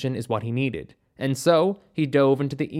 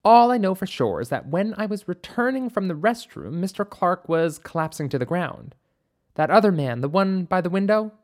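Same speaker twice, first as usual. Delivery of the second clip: slightly higher witness voice; a hint of a higher-voiced character recalling events; lightly voiced doctor; 5 semitones higher than usual. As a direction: recount it as the doctor, pitched up a little. Narrator voices doctor recounting.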